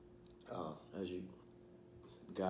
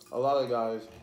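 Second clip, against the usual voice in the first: louder, clearer restart after swallowing; 4 semitones higher, 11 dB louder than usual. Real, not acted. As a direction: start over loud and clear. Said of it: "I'm sorry if I'm talking my mouth full".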